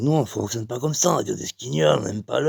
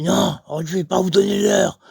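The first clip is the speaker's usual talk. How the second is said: high-pitched, put-out refusal; mock-indignant gentleman; refusing man; 8 semitones higher, 4 dB louder than usual. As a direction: act out a stranger saying no, pitched up. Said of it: "il fait".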